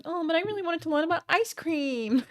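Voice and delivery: high, far put-on voice of a disappointed fan; mock naive visitor. Mocking herself as a disappointed museum visitor, high silly voice. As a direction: squeak it like a let-down kid. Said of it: "and I was like".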